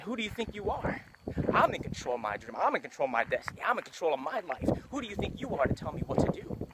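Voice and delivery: high-pitched defiant challenge; defiant heart. Retold or imitated. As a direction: fire back at the doubting mind, rising. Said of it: "It said".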